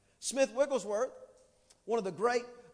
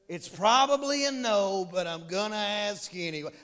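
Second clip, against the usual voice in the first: doubtful asking; 4 semitones lower than usual. Retold or imitated. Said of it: "I feel like Eeyore when I say that".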